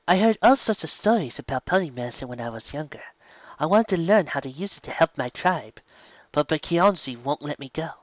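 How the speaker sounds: put-on eager young zebra. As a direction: pepper the guest with excited questions. Mizungu tells her wish.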